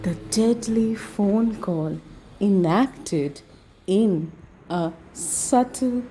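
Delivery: slow, measured title read; skit title announcement. Acted. Performer introducing the deadly phone call skit, slow title read.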